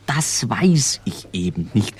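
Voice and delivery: secret whisper. Acted. Friend confides about mystery man.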